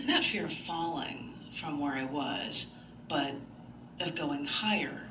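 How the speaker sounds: slow, measured poem reading. Acted. Reading her poem to the open mic audience, slow and measured. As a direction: read it gently, letting the lines breathe.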